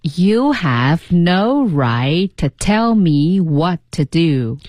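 very slow, word by word; slow model reading. Shown as a demonstration. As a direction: read it slowly for learners to copy. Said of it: "那我们来读两遍".

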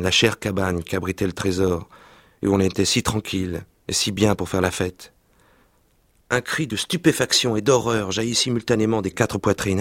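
lively reading aloud of a French novel; story reading. Acted. Reading a childhood novel aloud to the interviewer, expressive narration. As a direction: read the scene with vivid expression.

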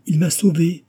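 put-on young woman shouting to her worried family below; joyful shout. A narrator's reading. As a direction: shout the happy news upward. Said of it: "crie-t-elle".

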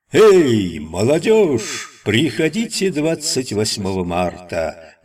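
slow, drawn-out announcer read. Acted. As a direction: announce it like a poster. Reads an ad poster.

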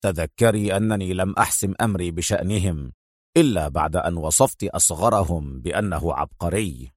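low, soft, stern male voice; quiet, deep severity. A narrator's reading. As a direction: warn her sternly, keeping it low. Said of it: "قال في صرامة".

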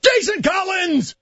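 slow, high, drawn-out shout. Real, not acted. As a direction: announce the name like a roll call. Calling out player name.

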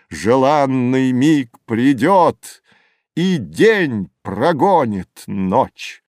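slow, ceremonious verse declamation; exultant recitation. A narrator's reading. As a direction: savour every phrase of an adored poem. Admirer recites the rival's acclaimed poem.

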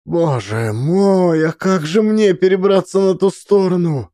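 weep the words out of despair; mother sobbing, desperate to cross the river. Acted. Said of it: "навзрыд плакала Цаган".

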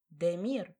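gasping his name in shock; a startled cry of the name. Acted. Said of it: "потрясённо ахнула".

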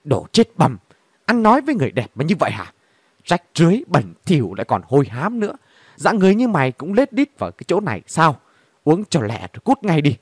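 chửi xối xả, giọng khinh miệt; mắng té tát kẻ rách rưới; chửi đổng. Acted. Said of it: "À gái điếm chửi đồng". (cô gái điếm chửi gã khách hôi hám, giọng chửi khinh bỉ)

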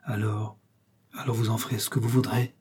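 subdued, giving in; with a sigh. A narrator's reading. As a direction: let it go with a sigh. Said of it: "ajouta-t-il avec un soupir".

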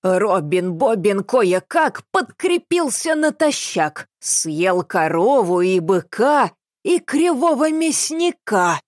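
slow sing-song nursery rhyme, blankly chipper; senseless cheerful recital. Acted. Confused old woman reciting a rhyme, chipper. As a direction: recite like a child at a party. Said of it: "бессмысленно бодрым голосом".

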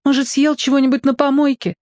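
put-on high girlish voice for Lika; worried young girl suggesting a cause. A narrator's reading. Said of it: "сказала Лика".

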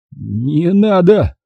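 slow, drawn-out begging; pleading. A narrator's reading. Pashka begging for his life, slow and drawn out. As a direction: stretch the plea out slowly. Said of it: "взмолился Пашка Самар".

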